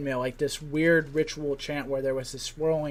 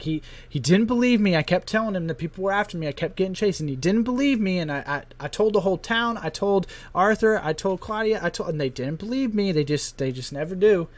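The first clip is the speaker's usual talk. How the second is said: higher, louder, pleading rant; a son nobody listens to, ranting higher and louder; 6 semitones higher, 5 dB louder than usual. Acted. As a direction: blurt it out, desperate to be believed. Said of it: "he just keeps ranting and raving".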